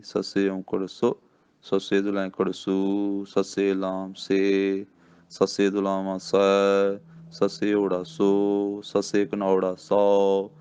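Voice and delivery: slow rhythmic reciting of the letter-vowel chart; slow alphabet drill for learners; muharni recitation. Shown as a demonstration. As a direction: chant it like a primer drill. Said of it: "ਫਿਰ ਅੱਗੇ ਸੱਸਾ ਹੈ".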